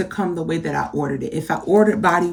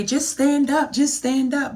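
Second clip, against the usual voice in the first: higher, sing-song mock of people's advice; mock-casual advice, lifted high; mocking bystanders; 5 semitones higher than usual. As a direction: lightly mimic the know-it-alls, pitched up. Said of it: "They say".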